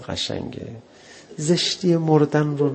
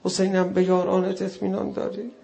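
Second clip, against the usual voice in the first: rising, pleading cry, louder as it goes; pleading lament; 9 semitones higher, 6 dB louder than usual. Retold or imitated. Zainab asks Hussein about his companions, pleading. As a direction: beg him, voice climbing in grief.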